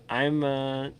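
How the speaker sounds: half-asleep chuckle through the words; sleepy laughing. Real, not acted. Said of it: "I'm kinda dozing a little bit myself".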